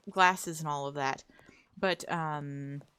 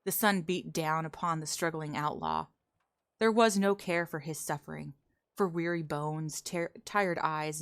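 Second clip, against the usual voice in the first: story narration; 2 semitones lower than usual. Acted. Reads a western story.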